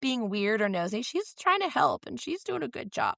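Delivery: put-on high-pitched, insistent kid voice; retold earnest protest, pitched high; imitated child defender. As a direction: stand up for a friend in mock child voice. Friend defends Nancy, retold.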